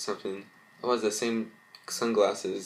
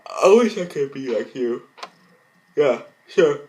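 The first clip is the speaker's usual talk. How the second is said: loud retort; 5 semitones higher, 9 dB louder than usual. Acted. Jealous friend snaps back.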